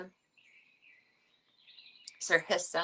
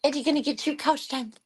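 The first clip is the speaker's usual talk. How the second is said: playful pet talk; 13 semitones higher, slower than usual. Real, not acted.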